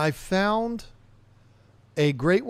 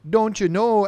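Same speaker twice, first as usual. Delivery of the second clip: "don't you know" in a mock Canadian accent, a little louder; 3 semitones higher, 5 dB louder than usual. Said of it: "accent in that movie".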